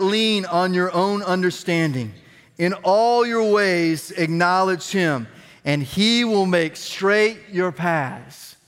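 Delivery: slow, measured reading aloud; scripture reading. Real, not acted. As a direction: lead the room through the verse, stretching the key words. Reads the Bible verse aloud.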